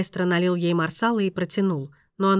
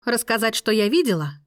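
indignant exclamation; 4 semitones higher, 4 dB louder than usual. A narrator's reading. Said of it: "воскликнула Мия".

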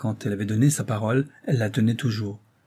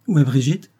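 louder, alarmed question; sudden alarm; 3 semitones higher, 7 dB louder than usual. A narrator's reading. Husband hearing a creak asks after niece, alarmed. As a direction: ask it with a jolt of alarm. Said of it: "soudainement alarmé".

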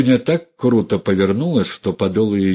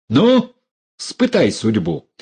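armed dare; 4 semitones higher, slower than usual. Acted. Dunya aims a revolver.

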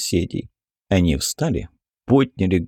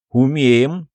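in chorus; 3 semitones higher, 4 dB louder than usual. A narrator's reading. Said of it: "хором подтвердили они".

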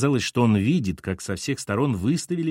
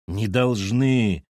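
irritated; 3 dB louder, much slower than usual. Acted. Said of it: "раздражённо заявил капитан".

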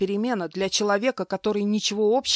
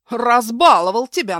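much louder angry bark; furious scolding; 4 semitones higher, 10 dB louder than usual. Acted. Husband dragging his wife, loud furious scolding. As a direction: bark at her in fury.

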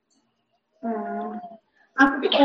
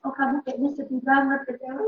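gentle empathy; 6 dB quieter than usual. Shown as a demonstration. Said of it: "tebak perasaan".

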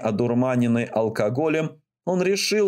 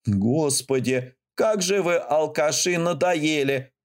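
angry dispatcher; 3 semitones higher, slower than usual. Acted. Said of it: "гневно ответила женщина-диспетчер".

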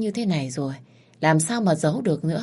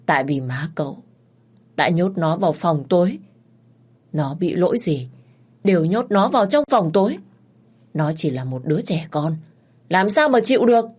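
bitter rising anger. Acted. Bà Hai Tình reveals the dark room.

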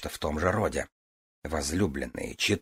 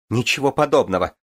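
tearful outcry; 6 semitones higher, 5 dB louder than usual. A narrator's reading. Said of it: "вскричала Игрейна, заливаясь слезами".

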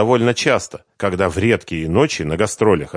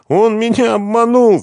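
high, loud weeping cry; 8 dB louder than usual. Acted. Svetlana weeps to Renat, high and loud. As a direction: wail it through tears. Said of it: "заплакала она".

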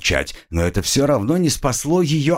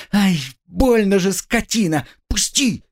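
put-on tied-up girl, high, pained curses; pained cry; 10 semitones higher than usual. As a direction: yelp from the pain. Girl cries in pain.

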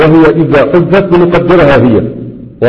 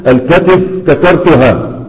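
slow example; slower than usual. Shown as a demonstration. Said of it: "فتقول".

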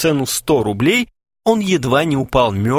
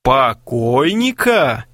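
mocking echo; 2 semitones higher, much slower than usual. Friend mocks Kharchenko's words.

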